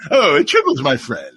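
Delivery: lightly played sitcom trader greeting a pal; Cyrano Jones. Cast riffs on the tribble seller, lightly put-on character. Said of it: "Cyrano Jones".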